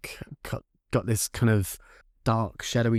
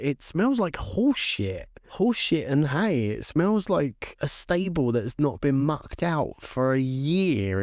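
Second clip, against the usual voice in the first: disgusted; 3 semitones higher than usual. Retold or imitated. Describing the stench, disgusted.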